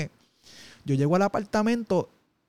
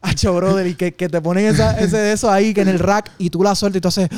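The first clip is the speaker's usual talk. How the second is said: strained squat reenactment; 3 semitones higher, 7 dB louder than usual. Retold or imitated. Acting out a heavy squat.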